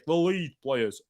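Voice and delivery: put-on Yorkshire accent. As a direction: talk like a Yorkshire fan. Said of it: "putting it on in a Yorkshire accent".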